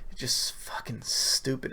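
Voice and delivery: muttered annoyed aside; under breath. Real, not acted. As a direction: mutter it, half to yourself. Annoyed aside about the scrolling.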